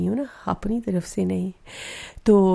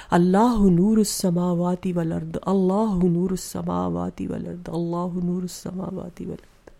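fading recitation. Real, not acted. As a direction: let the recitation die away to a hush. Recited Quranic verse, repeated thrice.

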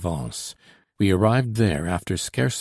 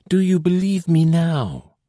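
high, louder anxious plea; deep anxiety; 9 semitones higher, 5 dB louder than usual. Acted. Frightened girl begs the soldiers to believe her. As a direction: push her desperate question at the soldiers. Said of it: "she exclaimed in tones of deep anxiety".

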